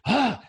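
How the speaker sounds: demonstrated cold-water gasp; sharp gasp. Shown as a demonstration. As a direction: gasp as if hit by icy water. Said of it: "turn it on and go".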